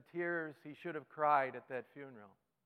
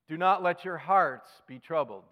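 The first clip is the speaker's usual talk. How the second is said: scripture reading; 2 semitones higher, 9 dB louder than usual. Acted. Reading Jesus' words aloud.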